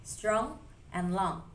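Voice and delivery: Strong and long, each ong leaned on slowly; slow stress on the ong of Strong and long; stressed endings, slowly. Shown as a demonstration. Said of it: "both end in that stressed ong sound".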